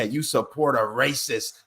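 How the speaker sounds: slow, pointed imitation; lady at the store, slow mock accusation; mock accusing drawl. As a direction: drag it out like a smug accusation.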